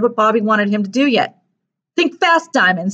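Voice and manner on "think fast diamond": mildly gleeful bully; high start, mocking drop on the name; snickering taunt. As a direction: needle him with a touch of a snicker. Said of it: "snickered Mitchell".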